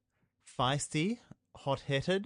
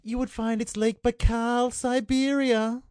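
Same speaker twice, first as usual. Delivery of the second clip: higher, slow sinister villain drawl; Bond villain voice; 9 semitones higher, 5 dB louder, slower than usual. Acted. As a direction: play it like a smug Bond villain. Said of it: "you sounded like a Bond villain just then".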